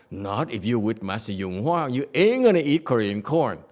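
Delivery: loud playful retort; teasing loud comeback; mock retort. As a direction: shut him down teasingly.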